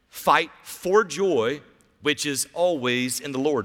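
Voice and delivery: slow down and lean on Fight for joy; slow emphatic repeat. Shown as a demonstration. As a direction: repeat it slowly so it sinks in.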